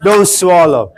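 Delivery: final don't, high and breaking into a laugh; laughing punchline. Acted. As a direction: deliver the last rule while cracking up. Punchline of the prohibition chain.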